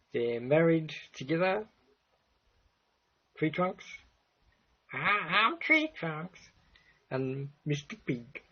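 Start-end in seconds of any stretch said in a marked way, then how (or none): 4.9-6.4 high-pitched Deep South drawl for a character; deep Southern Alabama accent. Acted. Vlogger introduces the girlfriend Tree Trunks, high Alabama accent. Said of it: "this is a deep Southern Alabama accent".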